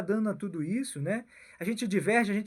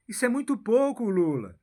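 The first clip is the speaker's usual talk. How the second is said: whisper; 2 semitones higher than usual. Acted. Repeat addressed to Lula, whispered.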